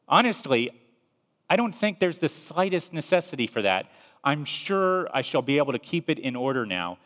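an apologetic ghost fretting at the angel; pleading ghost. Acted. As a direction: talk him out of it nervously. Ghost insisting no need.

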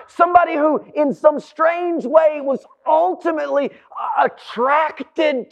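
fervent pulpit storytelling; impassioned preaching. Real, not acted. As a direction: preach it with drive, stretching the final phrases. Preaches with rising force.

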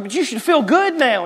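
high, coaxing mother; mock gentle urging; puzzled mom. Mom puzzled by her crying son. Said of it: "she's like".

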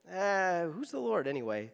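low, offhand brush-off; mock indifference, sinking low and soft; dismissive shrug. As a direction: toss it off as if God hardly matters. Acts out disregard for God.

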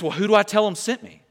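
lightly acted bewildered questioning; puzzled Moses voice. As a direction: voice a mildly flustered man asking God for instructions. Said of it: "Moses says".

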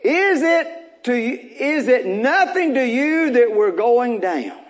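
high, slow anguished plea over laughter; panicked cry. Acted. Disciples crying to Jesus, high panicked plea. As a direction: cry out to the teacher as the boat sinks.

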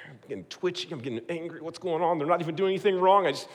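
from grumbling to leave me alone shout; frustrated inner rant. Retold or imitated. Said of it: "I'm like".

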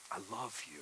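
soft, tender. Acted. Repeated softly after whisper.

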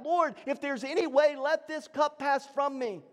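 crying out in prayer. Retold or imitated. Preacher voices Jesus praying in Gethsemane, crying out. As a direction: cry it out high, as preached, not fully shouted. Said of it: "And he cries out".

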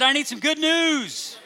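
full-voiced believing declaration; like you believe it. Shown as a demonstration. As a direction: proclaim it like you mean it. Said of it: "Say it like you believe it".

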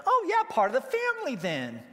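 high, gushy mock delight; hammed-up doting cry; gushing pet lover. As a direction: coo loudly as if over a pet. Acts Americans gushing over pet dogs.

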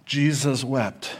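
Jesus wept drawn out very slowly and softly; slow, reverent reading. Shown as a demonstration. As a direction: linger on each word of Jesus wept, hushed and tender. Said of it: "it really is beautiful to think about it".

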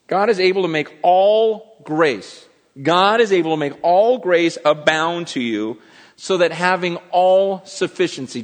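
hitting "all" in "all sufficiency"; emphatic repeat. Real, not acted. Preacher repeating the verse to the church, stressing all. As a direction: lean on every "all". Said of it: "what has God given you".

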